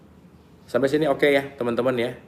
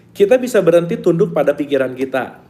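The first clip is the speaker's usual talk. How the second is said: emphatic reading; 6 semitones higher, 5 dB louder than usual. Shown as a demonstration.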